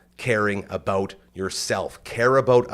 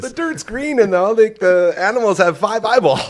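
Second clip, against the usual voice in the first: high, loud mock-panicked worker; hammed-up panicked employee; alarmed underling; 11 semitones higher, 9 dB louder than usual. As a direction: protest to the boss in comic alarm. Acting alarmed worker to boss.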